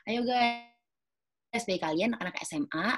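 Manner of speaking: put-on lively, casual high call to teens; upbeat hype. Shown as a demonstration. Promoting a campus event to high school students, casual hype. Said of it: "jumpy banget nih".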